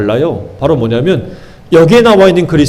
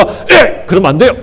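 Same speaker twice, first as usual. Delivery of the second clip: mock rebuke; 3 semitones higher than usual. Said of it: "이렇게 막 꾸짖었단 얘기예요".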